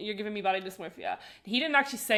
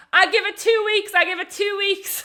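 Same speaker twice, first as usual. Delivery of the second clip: shrill scream, very high-pitched and very loud; 11 semitones higher, 8 dB louder than usual. Retelling a driver shouting from the window at a passing couple: imitating someone screaming. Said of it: "he's screaming at the window".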